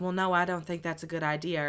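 imitated Southern accent; lightly put-on Southern voice. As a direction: quote her with a mock Southern twang. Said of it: "Ansel's voice with a fucking Southern accent".

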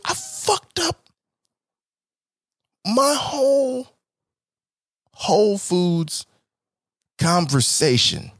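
slow, high mock wail; slow hammed-up sob; mock despair. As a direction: fake sobbing regret, drawn out.

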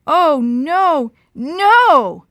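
loud, high horrified cry. A narrator's reading. Dad spotting the falling plane, horrified cry. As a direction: cry out in horror.

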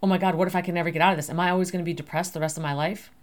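worried thoughts rattled off fast; a person afraid they'll never get out of depression, fast and anxious; anxious rush. Acted. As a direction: race through the fear like it's spiraling. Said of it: "And then you fear".

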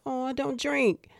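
high, polite little refusal; imitating herself declining sweetly; trying to be nice. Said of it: "Trying to be nice".

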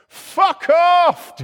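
high loud yell back at him; shouted retort. Retold or imitated. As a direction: bark it back with full force. His retort to yelling bloke.

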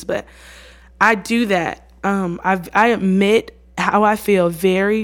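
normal talking voice

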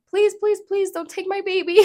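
retold tearful begging, high-pitched; crying plea. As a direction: beg in a high voice, close to tears. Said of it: "I'm, like, crying".

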